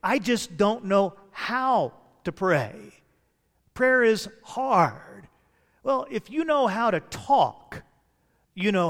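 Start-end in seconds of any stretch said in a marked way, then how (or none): 0.0-5.3 mock helpless complaint. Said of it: "some folks say".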